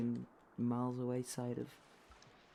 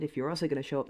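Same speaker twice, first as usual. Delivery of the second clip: repeated louder, annoyed; 8 dB louder, faster than usual. Real, not acted. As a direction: say it again, louder and angrier. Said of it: "I said".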